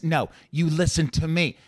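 high, slow, deliberate impression; Malkovich. Impressionist working out how he talks, Malkovich impression. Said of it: "if he talks like this".

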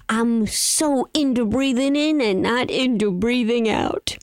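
flat robot vacuum voice. Shown as a demonstration. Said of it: "That was my robot voice".

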